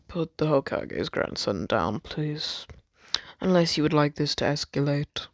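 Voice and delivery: measured, posh request. Acted. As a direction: speak like a very posh gentleman. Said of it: "gave him such a posh voice".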